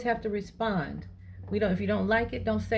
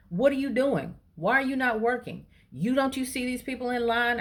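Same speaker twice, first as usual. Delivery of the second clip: mock a man going off at the clerk; retold yelling; 6 semitones higher than usual. Customer yelling at the cashier for not working, mock angry. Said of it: "he starts yelling at her".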